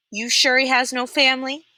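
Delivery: warden voice. A narrator's reading. Warden asks Pendanski.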